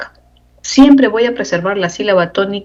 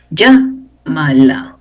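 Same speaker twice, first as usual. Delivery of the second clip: "Llámala" slowly, first syllable stressed; 3 semitones lower, much slower than usual. Shown as a demonstration. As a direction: draw out "Llámala" with weight on LLÁ. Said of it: "Porque es esdrújula".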